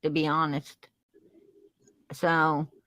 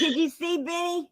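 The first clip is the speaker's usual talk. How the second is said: breathless giggly whisper; 8 semitones higher than usual. Real, not acted. Friend whispering to the viewers about Benny, giggly. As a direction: lean in and whisper it.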